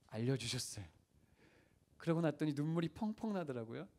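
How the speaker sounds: ordinary talk, nothing marked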